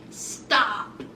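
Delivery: curt stop. Retold or imitated. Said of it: "swiped her hand out the way and said".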